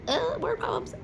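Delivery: whispered aside. Acted. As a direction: lean in and whisper it like a secret. Whispered aside about word problems.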